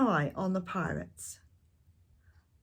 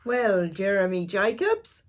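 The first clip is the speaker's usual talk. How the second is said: booming pirate query; 6 dB louder than usual. Acted. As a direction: ask it like a friendly pirate captain. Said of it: "he said".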